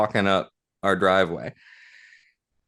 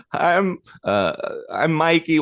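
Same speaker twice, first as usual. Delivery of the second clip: high small child's voice, imitating a little boy; timid little kid, pitched way up; 9 semitones higher, slower than usual. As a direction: squeak it out like a tearful six-year-old. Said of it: "And he goes".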